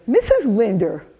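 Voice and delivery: mock-solemn child, calling out the name then settling; earnest little boy. Joshua to his teacher who finally found the address, mock-solemn praise. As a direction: imitate a kid formally congratulating the teacher.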